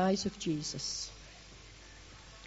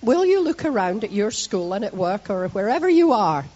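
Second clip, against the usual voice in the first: raised, loud call to the congregation; louder on request; 8 dB louder than usual. Shown as a demonstration. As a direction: project it to the back of the hall. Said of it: "could we just try a wee bit harder".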